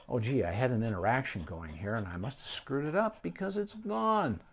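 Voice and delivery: a hint of a baffled cat wondering what it did; voicing the cat. Host voicing the ignored cat's puzzled thoughts, light and rising. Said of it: "And the cat goes".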